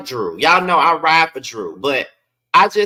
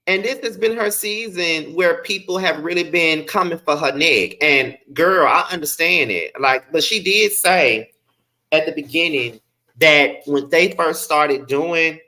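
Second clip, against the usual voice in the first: slushy s sounds from a lisp; heavy lisp on s sounds; 2 semitones higher than usual. Real, not acted. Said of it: "my lisp is lisping".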